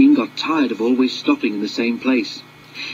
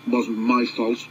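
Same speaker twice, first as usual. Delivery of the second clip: sulky mutter; slower than usual. Acted. Sixteen sulks to his driver, a mild mutter. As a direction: grumble it like a sulky child. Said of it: "muttered sixteen sulkily".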